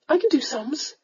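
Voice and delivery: put-on high, unsteady young lady's voice. A narrator's reading. Young lady answers the callous lord, unsteadily. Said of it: "she said rather unsteadily".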